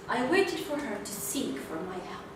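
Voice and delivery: ordinary talk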